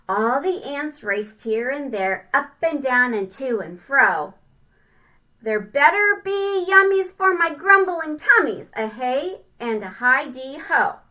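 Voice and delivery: sing-song storybook reading; rhyming read-aloud. A narrator's reading. Parent reading a rhyming picture book to a child, sing-song. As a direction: bounce through the rhyme for kids.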